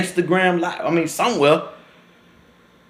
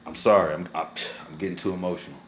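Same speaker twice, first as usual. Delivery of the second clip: much softer and lower, voice nearly gone; choked up; 8 semitones lower, 9 dB quieter, much faster than usual. Real, not acted. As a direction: barely get the words out, overwhelmed.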